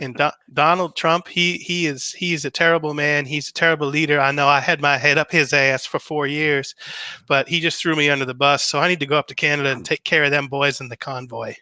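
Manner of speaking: a hint of a campy Southern politician; Lindsey Graham voice. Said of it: "the Lindsey Graham voice".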